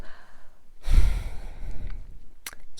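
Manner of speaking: long, unvoiced sigh; heavy sigh. Real, not acted. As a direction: let out a long breath mid-story. Pauses while recounting his cheating.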